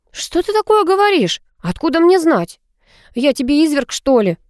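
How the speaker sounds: high, hammed-up protest; mock dismay. A narrator's reading. Girl fakes innocent outrage to a suspicious boy. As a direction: overplay the innocent shock. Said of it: "заохала я".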